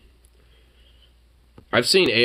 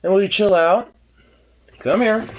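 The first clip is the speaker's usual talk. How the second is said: pet voice; 10 semitones higher, 4 dB louder than usual. Real, not acted. Talking to pet in high voice.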